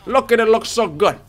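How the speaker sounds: high, delighted gushing; excited gushing. Real, not acted. Gamer admiring the traveling merchant, excited gushing. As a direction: gush with pitch jumping up.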